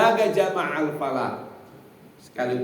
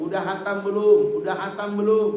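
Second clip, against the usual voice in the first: mock nagging; 5 semitones higher, 6 dB louder than usual. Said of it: "Tiap hari tanya di grup".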